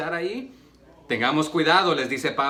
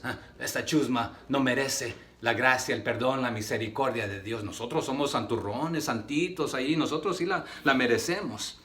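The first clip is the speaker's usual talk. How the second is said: scornful superiority; 3 semitones lower, 5 dB quieter than usual. Retold or imitated. Voicing the proud religious Jews.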